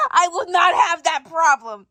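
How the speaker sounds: loud protest, hitting not; indignant shout. Acted. Wife shouting back at husband's teasing, indignant. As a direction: insist hard, raising the voice.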